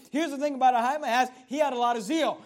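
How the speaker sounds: normal talking voice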